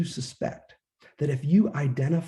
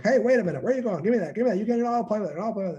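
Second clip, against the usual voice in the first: put-on high, pleading child voice; a kid demanding the toy; whiny child; 8 semitones higher, much faster than usual. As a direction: beg like a grabby toddler. Acting out a whining child.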